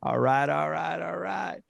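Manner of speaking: high, shouted catchphrase; McConaughey catchphrase. Acted. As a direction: belt the catchphrase out with a grin. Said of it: "Did I do the".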